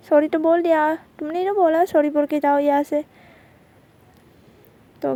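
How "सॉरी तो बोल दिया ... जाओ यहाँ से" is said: louder, slightly raised acted retort; mildly heated comeback; irritated retort. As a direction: argue back, voice pushed up. Acted quarrel over an apology.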